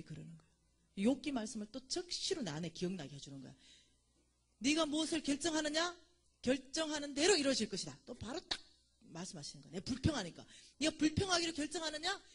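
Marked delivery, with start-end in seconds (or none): 4.6-8.0 voice of God. Retold or imitated. Voicing God's word. 10.8-12.2 voice of God. Retold or imitated. Voicing God's word.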